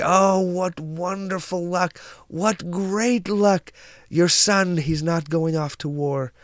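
high, slow, drawn-out delight; overjoyed neighbors. Acted. Neighbors rejoice that son avoids war, overjoyed. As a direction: gush it high, stretching the praise.

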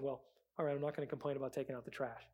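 low, quick, sulky concession; grudging teen. Retold or imitated. Rebellious teen to parents, low and grudging. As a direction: give in with a sulky sigh.

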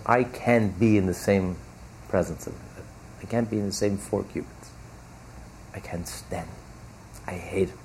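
a hint of God's contempt, hushed; hushed disgust. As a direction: mutter it with quiet loathing. God voiced disgusted by the arrogant.

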